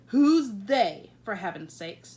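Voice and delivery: loud burst of royal exasperation; King of Sweden losing patience with the Queen; exasperated king. Acted. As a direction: throw up your hands at her.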